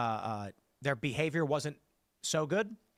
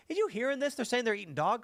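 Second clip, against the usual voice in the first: guy A gossiping; 7 semitones higher than usual. Retold or imitated. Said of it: "and he goes".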